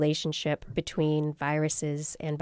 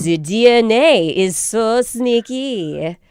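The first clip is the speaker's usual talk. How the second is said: put-on slow, louder joking French accent; bad French accent; 3 semitones higher, 8 dB louder, slower than usual. Host jokes that DNA is sneaky, in bad French accent. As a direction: ham up a fake French accent, drawing it out. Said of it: "that was my bad French accent making a joke".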